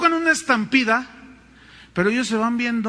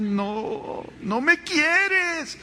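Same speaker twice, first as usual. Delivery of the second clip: put-on high, slow sobbing child's whine; whiny crying child; 8 semitones higher, much slower than usual. Pastor imitating a crying child who feels unloved. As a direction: wail it like a spanked little kid.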